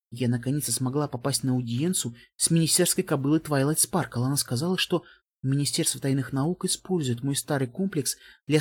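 mare's voice from a speaker; old recording played over a ceiling speaker; distant flashback echo. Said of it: "голос кобылицы, призрак из прошлого, зазвучал в динамике".

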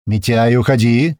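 loud slow command; firm loud order. Acted. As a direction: order him away firmly. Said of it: "командует грач".

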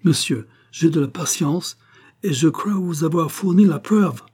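put-on an American pushing his French through a thick English accent; strong English accent. A narrator's reading. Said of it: "avec un accent anglais extrêmement prononcé".

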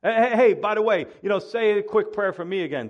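hammed-up "oh, by the way" request; nutty Pharaoh. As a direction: call out as an oblivious king asking a favour. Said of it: "he is just nuts".

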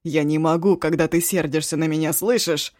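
loud pleading yell; yelling plea. Acted. Eshu yells his apology at the crying cook. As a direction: shout your remorse at her. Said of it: "заорал он так".

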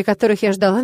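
ordinary delivery

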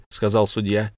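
ordinary delivery, nothing marked

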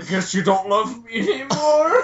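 high, slow, sulky put-on voice; hammed-up hurt pony whine; mock whiny pony voice. Mock sad pony voice quote.

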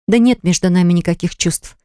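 plain reading voice

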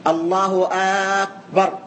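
أكبر begun with a long "aaa"; الله أكبر said as "allahu aaakbar"; second wrong form. Shown as a demonstration. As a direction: stretch the opening vowel of أكبر after الله. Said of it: "والصورة الثانية واضحة".

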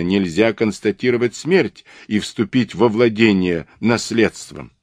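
lively, emphatic dismissal; scornful detective. Acted. Detective rejecting a rival's absurd theory, scornful. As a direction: argue it as obvious, scoffing.

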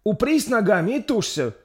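high, loud urging voice; younger midwife coaching. Acted. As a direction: push her on through the birth. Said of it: "подсказывала другая повитуха помоложе".

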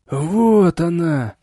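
shout. A narrator's reading. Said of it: "закричал пожилой мужчина".

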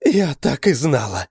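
high, loud cry of recognition; exclaiming. A narrator's reading. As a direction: knew it all along, crying out. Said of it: "воскликнула Адель". (громкое восклицание)

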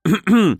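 a sharp cough after swallowing wrong; choked throat-clearing. Acted. Sister chokes on coffee mid-sip, coughing. Подавилась теперь она.

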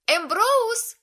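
high, loud shout from afar; calling out. A narrator's reading. Bee calls Ambrose from the corridor. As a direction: call him from down the hall. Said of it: "крикнула Би из коридора".

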